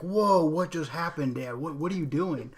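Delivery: mock stunned daughter. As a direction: ham up a teen's baffled reaction.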